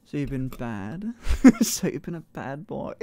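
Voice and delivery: vocal fry. Acted. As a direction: let the words crackle in vocal fry. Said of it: "like, vocal fry".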